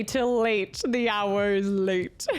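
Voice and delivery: slow, mock-ominous reading of "Till late. The hour is late."; hammed-up spooky announcer; ominous invite voice. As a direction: intone it like a spooky butler, slowly. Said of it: "I've never seen an invite say".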